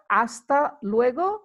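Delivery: Hasta luego said slowly, asta lweɡo; slow Spanish demo. Shown as a demonstration. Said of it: "teaching demo".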